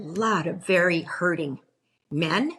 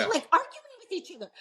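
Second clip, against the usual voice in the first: laughing; 12 semitones higher, faster than usual. Real, not acted. Amused retelling of viral comments.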